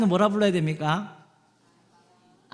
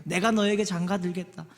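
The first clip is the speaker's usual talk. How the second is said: building vow; 5 semitones higher, 7 dB louder than usual. Acted. God vowing to marry his people, building to a shout. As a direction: vow building to a high, loud declaration.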